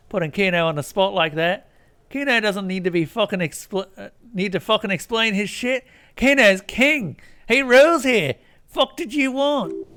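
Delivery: high, loud furious rant; angry Kuno rant. Acted. Kuno ranting at the player, furious. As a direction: rage at the lame cop.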